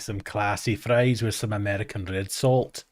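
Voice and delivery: badly faked Welsh accent; terrible Welsh accent. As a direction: attempt a Welsh accent and drift off. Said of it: "Maybe drifted into terrible Welsh then".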